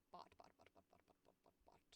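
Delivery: very soft, unvoiced muttering; whispered word drill; muttered repetition. Real, not acted. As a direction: repeat it rapidly under the breath. Practising the word to oneself.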